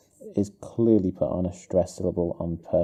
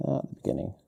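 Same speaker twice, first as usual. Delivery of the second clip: murmured dictation; 5 dB quieter, slower than usual. Real, not acted. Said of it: "I'm gonna put this".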